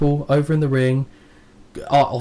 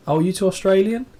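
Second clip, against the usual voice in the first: sweet American lady; 8 semitones higher than usual. Retold or imitated. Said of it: "this lady, again, very sweet lady".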